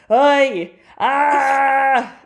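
high, loud startled cry; startled yelp. Real, not acted. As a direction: jump and yelp in surprise. Playful startled outburst.

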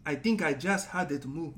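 lightly put-on British chef; a British TV chef's complaint; Gordon Ramsay. Shown as a demonstration. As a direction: finish the mock British kitchen scolding. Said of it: "this is my Gordon Ramsay".

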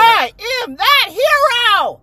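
high, loud, slow superhero boast; heroic proclamation. Acted. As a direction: proclaim it like a cartoon hero. Declares as superhero.

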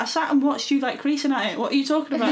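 indignant sibling comeback; exasperated retort. Retold or imitated. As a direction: call him out, incredulous. Retelling argument with brother.

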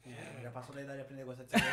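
laughing teasing, fast. Real, not acted. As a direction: tease while laughing. Teasing guest about beer.

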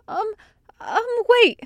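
high blurted call after a hesitation; urgent hesitant plea. A narrator's reading. Meryl urgently stops departing friends.

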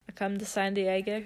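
put-on Australian visitor; Australian accent. Pretend Australian visiting San Diego, Australian accent. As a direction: try an Aussie accent lightly. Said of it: "speak with an Australian accent".

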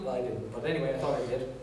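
hushed self-mocking aside; quiet aside. Real, not acted. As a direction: drop the voice for a wry aside.

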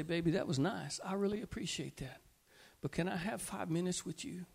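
soft, tender plea to her husband; wife's gentle request. Acted. Wife to husband after dinner, softly asking for time. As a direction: ask softly for time together. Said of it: "She's gonna say".

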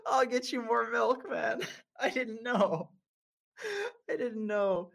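high, laughing through the words; laughing apology. Real, not acted. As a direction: giggle out the apology. Laughing while retelling apology.

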